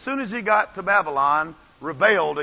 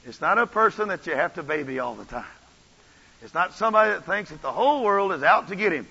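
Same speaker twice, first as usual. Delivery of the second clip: ordinary delivery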